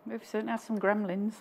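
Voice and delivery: said softly, easy to miss; soft aside. Real, not acted.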